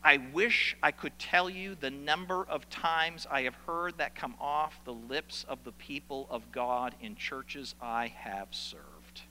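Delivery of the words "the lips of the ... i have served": trailing whisper. Real, not acted.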